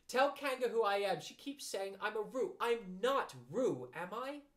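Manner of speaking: high, insistent plea; crying out. Acted. Piglet begging Christopher Robin to vouch for him, crying out. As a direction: plead loudly, high, rising at the end. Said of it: "cried Piglet".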